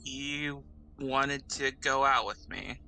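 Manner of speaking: halting, lightly groaned admission; mild groan. Acted. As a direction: groan it out a little, reluctantly. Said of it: "she says with a groan".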